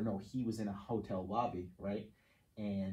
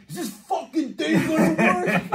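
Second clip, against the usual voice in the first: much higher, louder, slow laughing yell; hammed-up rage shout; 17 dB louder, slower than usual. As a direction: blow up at the car, laughing. Retelling friend losing temper.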